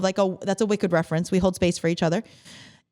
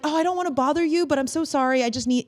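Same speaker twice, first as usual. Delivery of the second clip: quick, high-pitched apologetic fluster; over-apologetic; 8 semitones higher, faster than usual. Acted. Caller afraid of bothering someone, over-apologetic. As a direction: gush a hurried, higher-pitched apology.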